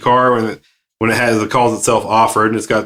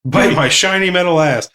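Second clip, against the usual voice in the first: Bender voice; 7 semitones higher than usual. Retold or imitated. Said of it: "my own little Bender robot".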